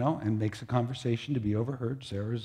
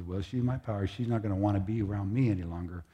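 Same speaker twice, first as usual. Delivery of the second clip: quiet sulk; 3 semitones lower, 6 dB quieter, faster than usual. Acted.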